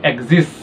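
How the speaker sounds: एग्जिस्ट with a faint sound dragged at the end; एग्जिस्ट with a slight trailing tail; light drag at the end. Shown as a demonstration. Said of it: "हल्की सी एक sound drag करी जाती है".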